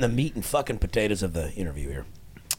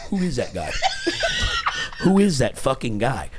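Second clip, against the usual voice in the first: mock yell, laughing; 6 semitones higher than usual. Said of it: "I wanna go".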